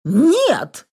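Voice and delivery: sudden high cry of "no"; alarmed exclamation. A narrator's reading. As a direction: exclaim it high, trying to stop someone. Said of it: "воскликнула Елена Викторовна". (встревоженное восклицание)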